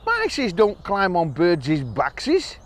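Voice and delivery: slow, fussy little mouse. Acted. Mouse refuses the bird's ride, slow and doubtful. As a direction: drag it out, doubtful.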